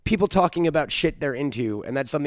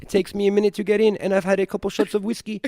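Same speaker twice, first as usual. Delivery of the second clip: put-on higher-pitched New Zealand accent; Korg; 4 semitones higher than usual. Co-host excusing his impression while still in it, New Zealand accent. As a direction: keep up the Kiwi film-alien voice, quick in places. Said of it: "My Korg impression".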